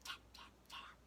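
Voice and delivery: soft unvoiced tap, tap, tap; whispered tapping. A narrator's reading. Narrator whispers the chick tapping inside the egg. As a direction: breathe the taps like a tiny beak.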